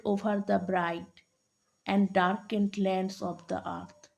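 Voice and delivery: measured poem reading, paused after each line; poem recitation. Acted. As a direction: recite verse line by line, lightly emphatic.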